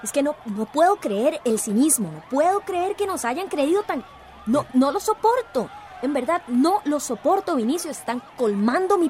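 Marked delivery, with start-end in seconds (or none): 0.5-7.5 indignant, emphatic outburst; exasperated. Acted. Beatriz rails at their cynicism, exasperated. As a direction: vent with mounting disbelief, pitch jumping up.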